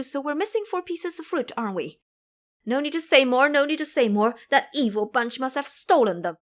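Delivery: counting it out, then rising to anger; boy working out the theft; reckoning Taoist boy. Acted. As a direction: build from sums to outrage. Ming Yue counts the missing fruit.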